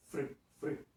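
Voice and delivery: isola a sílaba "Fri, fri" bem destacada; "fri" falado devagar e marcado; sounding out fri. Shown as a demonstration. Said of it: "eu tenho o som do F e do R". (sílaba "fri" separada e enfatizada)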